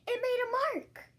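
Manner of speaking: excited exclamation. A narrator's reading. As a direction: announce the surprise with joy. Excited discovery.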